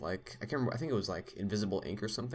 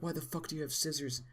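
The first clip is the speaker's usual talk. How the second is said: mock yell; 7 semitones higher, 3 dB quieter than usual. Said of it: "starts yelling at him".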